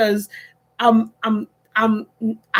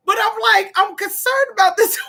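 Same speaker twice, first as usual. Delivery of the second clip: laughing; 9 semitones higher, faster than usual. Real, not acted. Laughing retelling.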